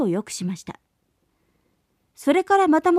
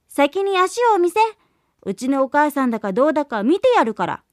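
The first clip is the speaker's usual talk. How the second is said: put-on kids in chorus; faster than usual. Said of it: "子ヤギたちは声を揃えて".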